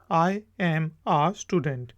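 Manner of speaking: slow, careful answer; slow demo. Shown as a demonstration. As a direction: model it slowly. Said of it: "जवाब आ सकते हैं". (धीमा उच्चारण)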